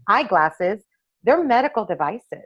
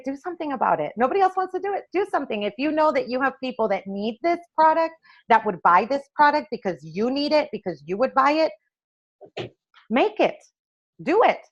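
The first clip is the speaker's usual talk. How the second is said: higher, pushing challenge; egging her on to just do it; urging husband; 5 semitones higher than usual. Retold or imitated. Husband challenging his frustrated wife, higher and urging.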